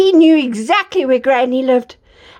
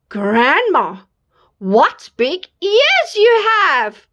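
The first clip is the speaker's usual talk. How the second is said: put-on slow little girl; 3 semitones higher, much slower than usual. Girl wonders at granny.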